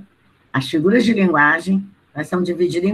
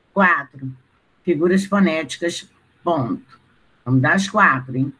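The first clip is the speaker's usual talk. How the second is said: slow, spaced-out dictation; dictating. Acted. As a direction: dictate each phrase so students can write. Teacher dictating to class.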